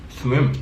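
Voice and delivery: "swim" said as the everyday word; saying swim. Shown as a demonstration. Demonstrating the word swim to a friend, plainly. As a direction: say "swim" clearly, the local way. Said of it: "We just say".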